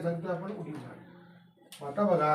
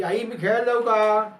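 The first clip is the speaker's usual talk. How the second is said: lightly acted child's question, higher and louder; a hint of a child asking permission, pitched up; child asking mother; 4 semitones higher, 5 dB louder than usual. Child asks mother to go out and play, lightly acted pleading question. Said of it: "आपण आईला प्रश्न विचारला की".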